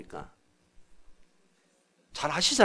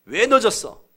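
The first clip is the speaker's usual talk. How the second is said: loud, raised-pitch reproach; 늦은 상대 나무라기; 4 semitones higher, 7 dB louder than usual. Acted. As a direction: snap at someone who is late. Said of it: "반응합니까". (언성을 높여 따지는 말투)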